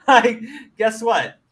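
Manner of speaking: laughing. Real, not acted. Laughing at lion point.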